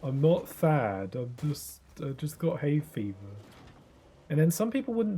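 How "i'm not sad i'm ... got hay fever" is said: slow, teary protest, played for laughs; mock tearful. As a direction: act out a weepy hay-fever excuse. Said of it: "why are you crying".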